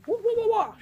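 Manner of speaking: loud, high, sharp imitation of Asian speech; sharp mock-Asian syllables. Shown as a demonstration. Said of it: "it's very sharp".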